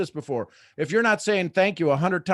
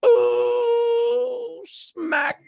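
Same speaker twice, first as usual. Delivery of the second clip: exclaiming ooh; 4 dB louder than usual. Real, not acted. Reacting to own punchline.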